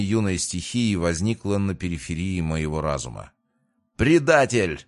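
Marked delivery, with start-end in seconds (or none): 4.0-4.9 higher, louder narrated roar; roared accusation. A narrator's reading. Royce lunging at a traitor, roaring. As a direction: roar it out with restraint, as a narrator would. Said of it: "взревел Ройс".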